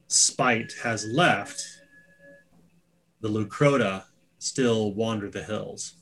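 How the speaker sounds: measured warning with drawn-out words and pauses; lightly voiced cryptic elder. Ankiel warns travelers of what wanders beyond the bridge, lightly voiced slow warning. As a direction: weigh each phrase, lightly in character.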